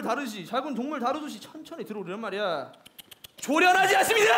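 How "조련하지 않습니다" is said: high, loud scolding shout. Acted. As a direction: snap it at the trainee. Instructor scolding trainee.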